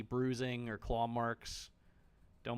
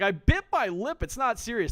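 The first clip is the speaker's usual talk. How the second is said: a touch higher and louder, mocking her excuse; mock survivor voice; 7 semitones higher, 7 dB louder than usual. Streamer mimicking the bleeding survivor's excuse, mildly mocking. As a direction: parrot her excuse back with a mild sneer. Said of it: "She's like".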